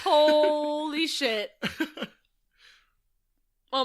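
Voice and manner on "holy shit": very slow, higher and louder awe; drawn-out amazement. Real, not acted. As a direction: stretch each word out in amazement. Amazed reaction to favorite scene.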